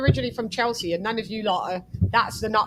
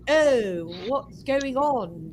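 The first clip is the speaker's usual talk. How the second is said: mock posh accent; much slower than usual.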